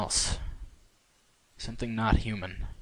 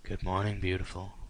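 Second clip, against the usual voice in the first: soft, breathy morning whisper; 5 dB quieter than usual. A narrator's reading. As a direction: breathe it softly into her ear. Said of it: "whispered breathily in her ear".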